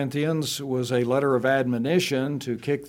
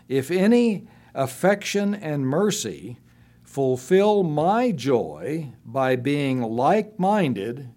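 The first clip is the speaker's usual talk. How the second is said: raised, earnest reading of the verse; scripture reading; 2 semitones higher than usual. Acted. Pastor reading Philippians to the church, earnest scripture reading. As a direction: read it out to the congregation with feeling.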